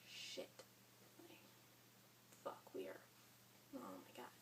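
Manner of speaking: whispered swearing in shock; panicked whisper. Retold or imitated. Teen realizing she's pregnant, whispered panic. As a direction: breathe the curses out, barely voiced. Panic after positive test.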